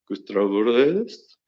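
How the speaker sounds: slow put-on voice, rising at the end; Gustavo Reyes. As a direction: drag the name out into a question. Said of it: "if you can do shit like that".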